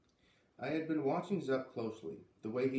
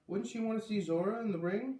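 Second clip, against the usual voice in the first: put-on higher, insistent kid brother asking; brother's question; 9 semitones higher, 4 dB louder than usual. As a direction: press the point like a puzzled boy. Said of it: "Luke asked".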